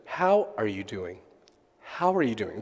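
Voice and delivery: soft, concerned check-in; caring how are you doing. Shown as a demonstration. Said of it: "do you hear the difference?".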